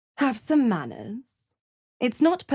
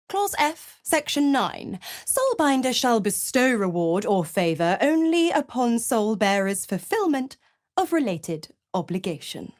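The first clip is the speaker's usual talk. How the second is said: reciting a contract; 3 semitones higher than usual. Acted. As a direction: quote the fine print with relish. Devil recites contract clauses.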